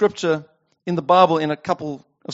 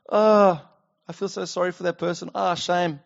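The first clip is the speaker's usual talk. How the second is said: soft, token sympathy; hammed-up sigh of passive pity, voice dropped; mock pity; 5 dB quieter than usual. Onlooker pitying someone without acting, soft mock sympathy. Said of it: "He didn't just go".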